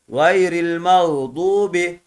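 "Gayril mağdubi" with the u held long; measured recitation, long u in "mağdubi"; lengthened u vowel. Shown as a demonstration. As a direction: draw out "du" in "mağdubi". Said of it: "Vav burada uzattı".

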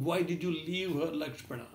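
trailing off in mild grief; soft pained repeat ending on Lakshmana. Acted. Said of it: "Rama started crying uncontrollably".

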